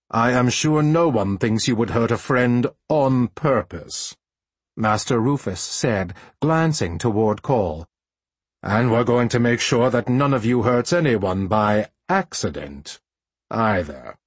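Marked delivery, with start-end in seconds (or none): 0.1-4.2 a lightly voiced stern master; measured, serious mentor; stern teacher voice. Master Rufus speaking to apprentices. 8.6-14.2 a lightly voiced stern master; measured, serious mentor; stern teacher voice. Master Rufus speaking to apprentices.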